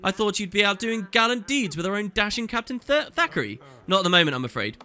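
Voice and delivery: pitched well up, sweet and gushing; a society lady flattering her guest, high and coy; high, honeyed party flirt; flirty noble lady. Acted. Player voices flirty noble lady.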